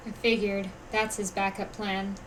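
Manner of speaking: knowing aside. Acted. Onlooker spotting his backup plan, quiet and knowing. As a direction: murmur it to a companion, unsurprised.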